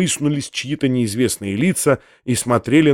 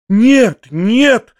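higher, louder, panicked no; frightened cry; 7 semitones higher, 4 dB louder than usual. A narrator's reading. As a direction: refuse in fright. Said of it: "закричала испуганная Татьяна Ивановна". (испуганный крик)

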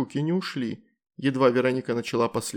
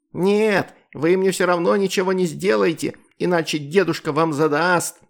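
higher, louder cheeky refusal; defiant retort; 6 semitones higher, 5 dB louder than usual. A narrator's reading. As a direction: refuse smugly, sure of protection. (дерзкий отказ, выше и громче)

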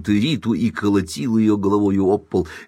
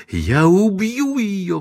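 high, drawn-out squeal of rage; furious shriek; 11 semitones higher, much slower than usual. A narrator's reading. Wife threatens to kill her rival, shrieking. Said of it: "взвизгнула Эйлин".

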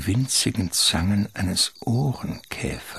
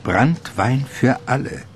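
fröhlicher Ruf; 6 semitones higher than usual. Acted. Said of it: "ruft der junge".

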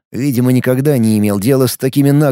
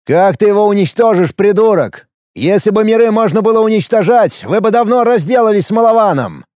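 heated retort; 7 semitones higher than usual. Acted. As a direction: snap back at the captor. Alex retorts to the enemy. (резкий ответ)

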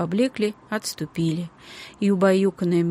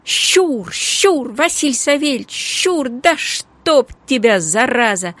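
loud wailing yell from the kitchen, pitch high; a cook shrieking for the cat; wailing shout; 6 semitones higher, 5 dB louder, slower than usual. A narrator's reading. Cook yelling for the cat in alarm, shouting. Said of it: "Аннушкин вопль".

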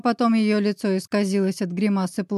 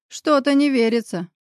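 higher-pitched note of doubt; sceptical; 5 semitones higher, 4 dB louder than usual. A narrator's reading. Grisha doubting the woman's story, sceptical. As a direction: voice open disbelief, lightly. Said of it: "скептически поинтересовался Гриша".

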